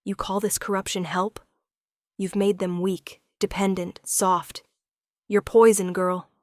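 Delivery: sharp, rising to loud on poison; whip-crack anger. Acted. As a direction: lash out at her like a whip. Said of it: "His voice cracks like a whip".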